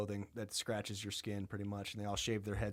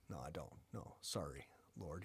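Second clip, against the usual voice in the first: much lower and softer, apologetic; meek Job; 6 semitones lower, 14 dB quieter than usual. Retold or imitated. Job apologizing to the Lord, small and quiet. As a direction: mumble the apology like a scolded kid. Job meekly answers God.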